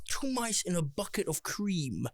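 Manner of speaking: put-on a slow Walken accent with long pauses; Christopher Walken impression. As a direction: stretch it out like Walken telling a parable. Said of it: "a spot on Christopher Walken accent".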